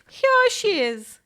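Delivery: very high, loud, slow little cub cry; high squeaky Baby Bear cry; tiny voice as loud as he could. A narrator's reading. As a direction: shout it with a tiny voice at full power. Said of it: "making his tiny little voice as loud as he could".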